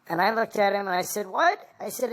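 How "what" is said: higher-pitched, incredulous "what"; retold disbelief. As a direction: act out a mildly taken-aback reply. Retelling his startled reply to boss.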